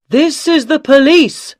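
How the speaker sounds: loud, high commanding shout; police shout. Acted. Police officer announces himself to the gunmen, loud shout. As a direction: call out with authority from the boat. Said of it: "someone shouted".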